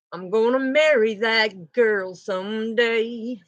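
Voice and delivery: slow, lovestruck declaration; lovestruck vow. Acted. Divine masculine vowing to marry her, slow and lovestruck. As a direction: savor the promise slowly. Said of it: "I don't know why I said it like that".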